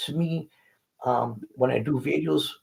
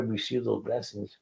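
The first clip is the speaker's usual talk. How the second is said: whisper; 2 semitones lower, 8 dB quieter than usual. Real, not acted. Climax of his testimony.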